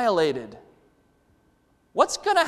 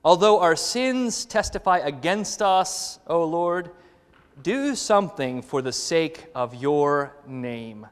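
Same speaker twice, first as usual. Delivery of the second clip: solemn scripture reading; 5 semitones lower, 4 dB quieter, slower than usual. Acted. Reading scripture verse slowly.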